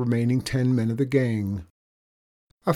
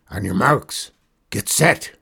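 race starter; 6 dB louder than usual. Acted. Outlaw boss starting a foot race, commanding. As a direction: call the start with a pause between.

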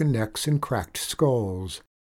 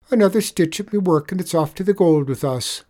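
higher, louder sly Irish voice; sly leprechaun; 6 semitones higher, 5 dB louder than usual. Acted. Leprechaun tricking the tradesman, sly higher voice. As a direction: wheedle him into looking away.

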